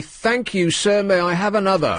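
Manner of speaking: a hint of a meek, eager schoolboy; lightly voiced humble pupil; public schoolboy. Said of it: "much like, um, a, a public schoolboy of old".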